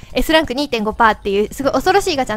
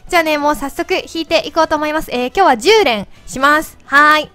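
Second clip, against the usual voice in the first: helium voice; 2 semitones higher than usual. Real, not acted. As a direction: talk after inhaling helium. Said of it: "まだこれ声変わってる？". (ヘリウムガスの声)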